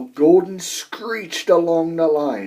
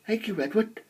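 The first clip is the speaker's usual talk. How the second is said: smiling; 6 semitones higher, 8 dB quieter, faster than usual. A narrator's reading. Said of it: "smiled Henry".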